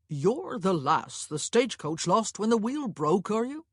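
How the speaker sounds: unhurried clerk, lilting up into the question; nosy coach-office clerk. Acted. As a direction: play an inquisitive clerk, taking his time. Narrator voices the clerk.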